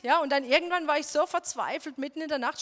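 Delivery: ordinary talk, nothing marked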